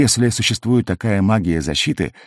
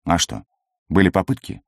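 booming from under a helmet. A narrator's reading. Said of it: "прогудел из-под шлема Арнх".

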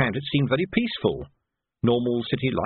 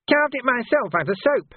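a wheedling gutter lad taking offence; cheeky street urchin Nobby, aggrieved; 13 semitones higher than usual. Acted. Nobby's voice held.

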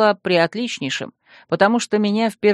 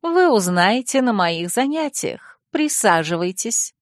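mysterious; 3 semitones higher, slower than usual. Acted. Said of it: "таинственно улыбнулась Хеки".

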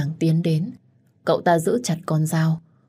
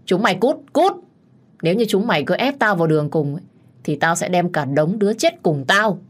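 furious shouting; 3 semitones higher than usual. Acted. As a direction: scream them away, cornered. Đức điên cuồng quát công an. (gào thét điên cuồng)

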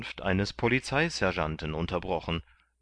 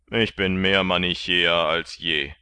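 Martin calling out; 6 dB louder than usual. A narrator's reading. Martin crying out at the arrest, louder. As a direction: call it out dourly. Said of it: "rief Martin".

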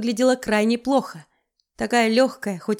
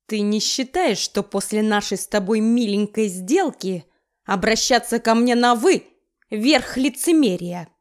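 growled. Acted. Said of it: "рыкнул Виктор Романович".

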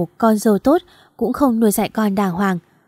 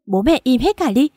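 loud, higher cry to stop the fight; desperate yell; 4 semitones higher, 4 dB louder than usual. Acted. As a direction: scream at both parents to shut up. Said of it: "Liền hét lên".

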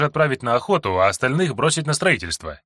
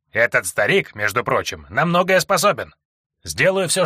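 put-on old prospector; 2 semitones higher than usual. Old dwarf eagerly agrees.

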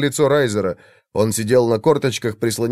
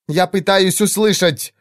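sharp retort; 7 semitones higher than usual. A narrator's reading. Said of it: "резко бросила Валира".

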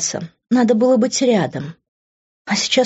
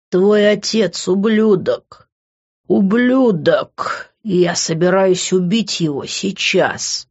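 furious; slower than usual. Acted. Grant raging at father.

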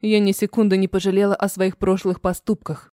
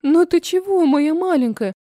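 put-on much higher, tender cooing to a crying toddler; soothing a child; 7 semitones higher than usual. A narrator's reading. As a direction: coo to calm the little girl. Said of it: "Шепчу дочь и стараюсь успокоить". (мать утешает плачущую дочь, высоко и нежно)

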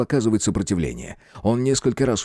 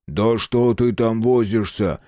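nervous; slower than usual. Acted. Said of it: "нервно спросил Хлюпу Шпала".

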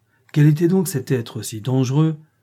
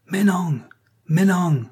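higher, cheering cry of victory; crowd cheer; 7 semitones higher, 3 dB louder, slower than usual. A narrator's reading. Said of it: "crient toutes les voix".

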